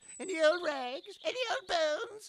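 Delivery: high, drawn-out whiny street-vendor cry. Complaining to the cart people about their calls, mimicking whiny street cries. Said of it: "your whiny voices, crying out".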